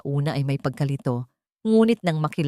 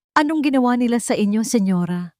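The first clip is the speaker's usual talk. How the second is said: higher, louder and fast in alarm; shocked dismay; 6 semitones higher, 4 dB louder than usual. A narrator's reading. Maid horrified at the mistress's state, alarmed. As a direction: blurt it out in horror.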